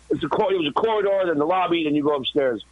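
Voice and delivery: ordinary talk, nothing marked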